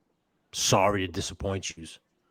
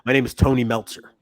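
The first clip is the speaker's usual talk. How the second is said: louder, higher mock Meltzer intro; mock wrestling critic; 4 semitones higher, 5 dB louder than usual. Host jokes he is the critic rating the match. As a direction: puff up like a famous wrestling critic. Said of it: "dare I say that match was five stars?".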